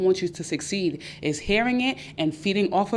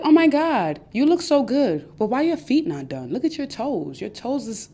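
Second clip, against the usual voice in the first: backhanded compliment; 5 semitones higher than usual. Retold or imitated. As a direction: fake delight, then the sneer. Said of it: "They'll give you backhanded compliments".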